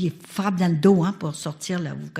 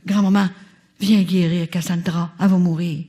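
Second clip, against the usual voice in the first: retold cry for help; 6 dB louder than usual. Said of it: "elle crie".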